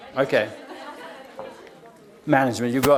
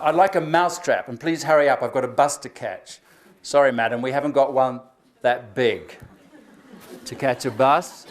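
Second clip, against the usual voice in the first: joke telling; 3 semitones lower than usual. Shown as a demonstration. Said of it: "Here's a couple more".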